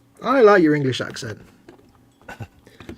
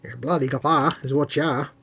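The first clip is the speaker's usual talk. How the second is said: mock Australian; 5 dB quieter than usual. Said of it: "my Australian accent is terrible".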